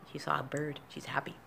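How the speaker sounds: hushed whisper to herself. Real, not acted. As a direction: whisper so as not to disturb. Talking softly about her pet.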